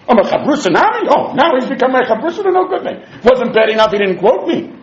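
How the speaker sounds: laughing, hammed-up indignant teacher; mock indignation. Rabbi Yochanan complains about his student, laughing mock outrage. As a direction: play the offended Rebbe, half laughing. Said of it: "So he was even more angry".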